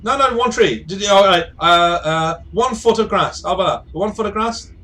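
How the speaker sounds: loud, high, stumbling plea; frantic pleading. Acted. Device about to be closed, frantic pleading. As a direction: scramble to bargain before being shut.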